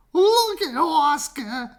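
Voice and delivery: high, slow teasing dog voices; mocking dogs. A narrator's reading. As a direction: dogs laughing at Oscar. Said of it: "they cried".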